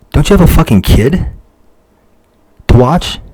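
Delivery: real rage boiling over on the voicemail; furious shout. Real, not acted. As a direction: blow up at her, shouting the questions. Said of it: "I'm just getting more mad".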